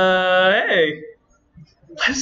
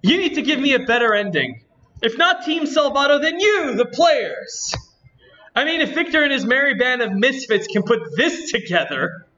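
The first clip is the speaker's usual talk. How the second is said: lightly voiced indignant game girl, slightly lifted; a hint of a peeved anime-game heroine; Natsuki voice; 4 semitones higher than usual. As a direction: complain to the audience in a mild character voice. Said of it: "doing the stupid voice".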